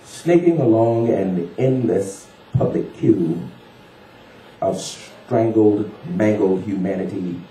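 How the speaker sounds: slow, measured poetry reading; unhurried storytelling poet; poem recital. Acted. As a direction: tell it in verse, lingering on phrases.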